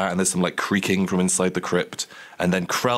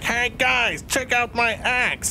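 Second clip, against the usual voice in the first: Krell voice; much slower than usual. Acted. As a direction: bellow like a thrilled dim-witted undead lug. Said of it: "that's more of the Krell voice".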